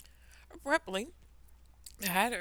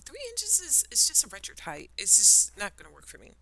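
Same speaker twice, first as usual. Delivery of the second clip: louder, rising protest; complaining Alice; 3 semitones higher, 6 dB louder than usual. Acted. Alice protests to the caterpillar, loud and insistent. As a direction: insist it just won't do.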